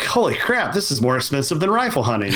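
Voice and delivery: high, fast mock shock at the price; imitating his own stunned outburst; retold disbelief. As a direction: blurt it out like the bill just hit you. Retold shock at the bow gear cost.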